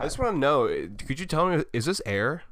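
1 mock polite plea. Mock polite pickup line.

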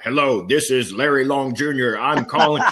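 stiff, over-official phone greeting, a touch mechanical; mock a scripted salesman reading his opening line; robotic scripted caller. Partner mocking Larry's stiff cold call, robotic. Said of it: "You sound like a robot".

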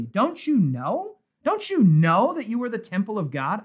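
a mild touch of disbelief, rising questions; incredulous. Retold or imitated. Paul asks the Corinthians, lightly incredulous question. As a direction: ask it as if he can't believe they don't know. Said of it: "with an almost air of incredulity".

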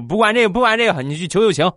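a wife waving away excuses, pushing him to beg; insistent wife. Retold or imitated. 不耐烦地催促.

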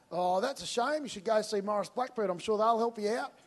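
a polite wave-off that ends the matter; breezy brush-off. Shown as a demonstration. Preacher acting out the easy way out, breezily dismissive. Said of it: "Option one".

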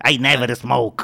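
lightly imitated speaking-machine voice. Retelling a comic's routine to friends, mock voice-machine delivery. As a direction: mimic a man talking through a voice device. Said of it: "usaba estas máquinas como de Don Miguel, así como".

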